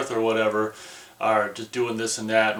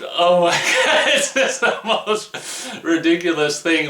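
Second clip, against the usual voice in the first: higher, louder, slow words through real laughter; laughing disbelief; 7 semitones higher, 5 dB louder, slower than usual. Real, not acted. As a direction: crack up at how ridiculous it is. Laughing at absurd movie.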